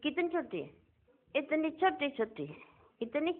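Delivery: very soft, as if showing something minute; hushed wonder. Real, not acted. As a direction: keep it small and hushed. Marvels at tiny souls. (नन्ही चीज़ जताती बहुत धीमी आवाज़)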